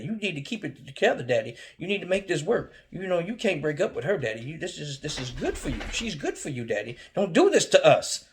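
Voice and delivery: a son begging dad not to break up; pleading kid. Retold or imitated. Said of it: "pleading child to dad".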